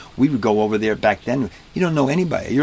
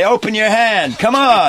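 much higher and louder, a teasing bellow; booming showman command; 12 semitones higher, 6 dB louder, slower than usual. Retold or imitated. Strongman booming at the little boy in the crowd. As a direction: lean over the boy and boom at him to open up. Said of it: "He'd say".

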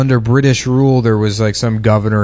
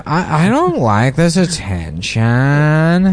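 mock Adam; 3 semitones higher, much slower than usual. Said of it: "Adam's like".

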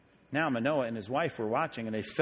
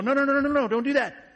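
high, loud, urgent no no no; alarmed refusal; 11 semitones higher, 6 dB louder, faster than usual. Retold or imitated. Angels refusing to be worshipped, a high loud alarmed no. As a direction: stop them before they bow.

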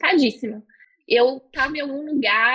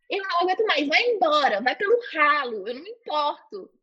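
mild mock yell, raised pitch; retold angry yelling; 3 semitones higher than usual. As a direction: act out telling off a spirit, not full volume. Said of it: "Eu comecei a gritar". (bronca gritada, encenada de leve)

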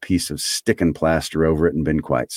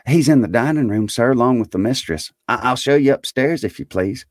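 higher-pitched, deferential maid; polite servant girl; 6 semitones higher than usual. A narrator's reading. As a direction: answer a gentleman politely, pitched up.

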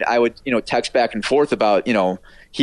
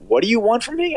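imitated mock complaint; 12 semitones higher than usual. Retelling star's teasing phone answer.

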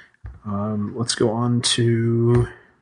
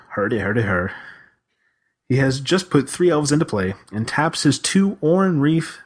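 Swedish Chef; 2 semitones higher than usual. Pretend. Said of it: "I was impersonating the Swedish chef".

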